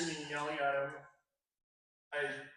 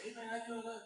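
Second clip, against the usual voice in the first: higher, softer polite hello; retold polite greeting; 5 semitones higher, 5 dB quieter than usual. Co-star greeting the actor in the cast van, polite. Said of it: "he was, like, very polite".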